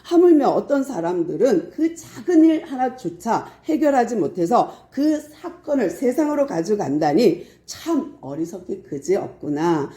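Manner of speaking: usual speaking voice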